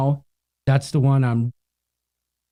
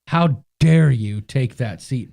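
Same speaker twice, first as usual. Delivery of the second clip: mock indignant; 5 semitones lower, slower than usual. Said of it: "visibly upset".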